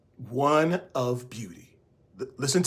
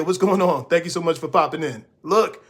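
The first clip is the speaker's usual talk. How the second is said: ordinary talk, nothing marked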